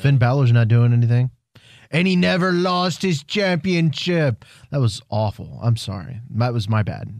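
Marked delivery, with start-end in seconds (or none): 0.0-4.5 bad Irish accent. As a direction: try an Irish lilt and miss it. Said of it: "That was horrible accent".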